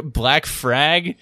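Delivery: "Frag" with an R in place of the L. Shown as a demonstration. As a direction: say "Frag" for flag, slowly. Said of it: "L as kind of like an R".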